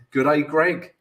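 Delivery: lightly put-on Australian accent; a hint of playful Aussie greeting. Trader greeting a viewer called Greg, in a mock Australian accent. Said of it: "That's my Australian accent again".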